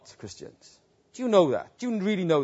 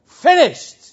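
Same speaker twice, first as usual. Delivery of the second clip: louder, higher peak cry; cried out even higher; 11 semitones higher, 10 dB louder than usual. Acted. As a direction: push it to the top in triumph. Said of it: "he cried out".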